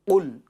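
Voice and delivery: قل with a full, thick qaf from far back in the throat; full, heavy qaf. Shown as a demonstration. Teacher showing children the heavy letter, full thick qaf in قل. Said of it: "پر یعنی موٹا پڑھنا ہے".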